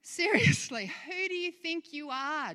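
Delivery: high-pitched, incredulous challenge; indignant challenge. Acted. Preacher voicing James rebuking planners, indignant. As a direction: demand it as if taking someone to task. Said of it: "James is saying".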